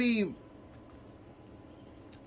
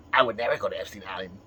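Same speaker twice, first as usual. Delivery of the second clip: joker character; 5 semitones lower, faster than usual. Pretend. Joker character denies wrongdoing.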